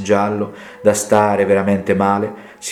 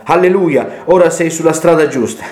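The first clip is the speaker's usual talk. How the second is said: higher-pitched, approving exclamation; retold exclamation; 5 semitones higher than usual. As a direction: exclaim it as the other man's hallelujah. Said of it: "Lui esclamò". (esclamazione riportata, con voce più acuta)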